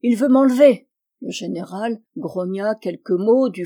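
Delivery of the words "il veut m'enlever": high, loud playful alarm; mock cry for help. A narrator's reading. Old lady to the general, joking cry for help. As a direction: cry out as if being carried off. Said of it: "s'écria la bonne dame".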